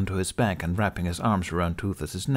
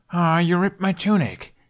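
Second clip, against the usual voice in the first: much higher whiny complaint; Hiccup voice; 9 semitones higher, 4 dB louder than usual. Acted. Hiccup complaining about tunic.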